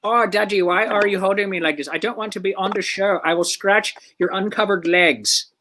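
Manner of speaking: lightly voiced grumpy cat; voicing the cat. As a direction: speak as the annoyed pet.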